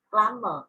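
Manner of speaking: "glamour" with M and no B sound; silent B. Shown as a demonstration. Teacher contrasting the odd word out, no B in "glamour". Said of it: "âm B không được phát âm".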